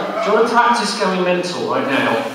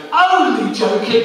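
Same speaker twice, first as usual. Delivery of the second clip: gleeful reveal; 7 semitones higher, 4 dB louder, slower than usual. Shown as a demonstration. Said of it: "all go".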